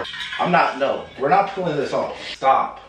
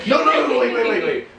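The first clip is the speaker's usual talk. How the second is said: panicked pleading; 5 semitones higher than usual. Real, not acted. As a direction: beg them to stop, panicking. Panics before wax is pulled.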